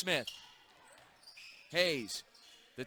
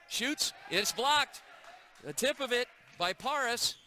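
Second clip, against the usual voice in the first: excited call; 5 semitones higher than usual. Acted. Live play-by-play block.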